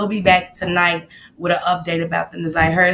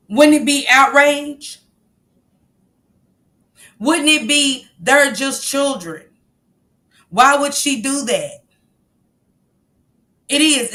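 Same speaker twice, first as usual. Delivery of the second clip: indignant outrage; 5 semitones higher than usual. Real, not acted. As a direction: press them with real outrage. Outraged about the school fight.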